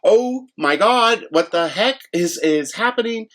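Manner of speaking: slow, high stunned disbelief; replaying shock as the driver runs off; overwhelmed disbelief. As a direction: drag it out in shock. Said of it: "my mind just cannot keep up".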